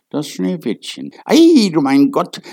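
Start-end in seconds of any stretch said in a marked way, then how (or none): 1.2-2.4 higher, louder cry of wonder; amazed cry. A narrator's reading. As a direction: gasp it out in awe. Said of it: "riefen sie". (staunender Ausruf, höher und lauter)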